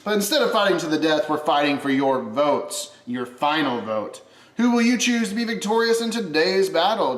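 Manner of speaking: hyped gladiator announcer; arena announcer. Acted. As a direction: pump up the crowd for the vote.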